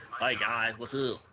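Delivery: demonstrating a redneck accent; a light country twang. Shown as a demonstration. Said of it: "That's a redneck accent".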